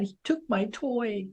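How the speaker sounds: put-on a toddler telling on his brother; child voice. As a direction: son explaining to mom, small slow child voice. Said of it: "why are you sad".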